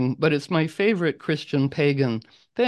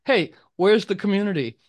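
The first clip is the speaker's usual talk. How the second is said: raised, pleading voice of a lonely member; lonely emailer; 3 semitones higher than usual. Retold or imitated. Emailing members asking where the community is, in a high plaintive voice. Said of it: "who were like".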